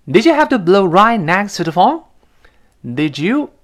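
loud, high indignant question; annoyed. Acted. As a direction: scold the caller for scaring you. 不依不饶.

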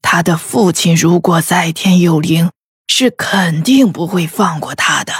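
感慨. A narrator's reading. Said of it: "感慨地说道".

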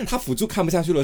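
ordinary talk

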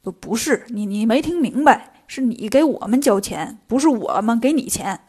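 mildly flustered robber, correcting a misunderstanding; taken aback. Acted. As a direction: trip on the first words, then explain the mix-up. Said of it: "一听愣了".

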